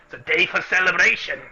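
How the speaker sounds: bluster, then laugh it off; offended dwarf. Acted. Dwarf takes mock offense.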